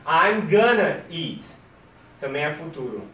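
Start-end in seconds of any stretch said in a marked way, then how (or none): 0.0-1.4 slow model sentence. Shown as a demonstration. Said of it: "você fala uma".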